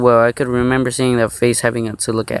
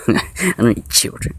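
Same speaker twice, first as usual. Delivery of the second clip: whispered aside. Real, not acted.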